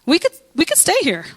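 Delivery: imitating tribes. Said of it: "they're like".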